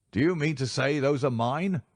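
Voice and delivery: frightened cry. A narrator's reading. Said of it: "he cried".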